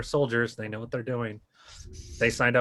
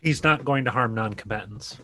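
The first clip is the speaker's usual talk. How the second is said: growly voice. Acted. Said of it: "I say in a growly voice".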